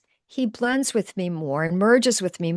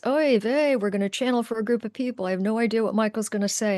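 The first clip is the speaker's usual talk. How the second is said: inner worried voice; 2 semitones higher than usual. Retold or imitated. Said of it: "there's a voice inside of me that goes".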